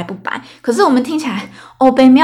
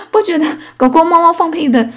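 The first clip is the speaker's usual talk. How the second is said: higher, louder, words bubbling with laughter; laughing while talking; 7 semitones higher, 6 dB louder than usual. Real, not acted. Host asking listeners about pet farts, laughing through words. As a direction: ask it while still giggling. Still giggling after fart joke.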